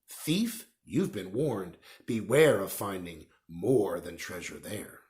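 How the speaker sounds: slow, grave warning verse; solemn inscription. Acted. Engraved words warning thieves, slow and grave. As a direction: intone it like an old curse.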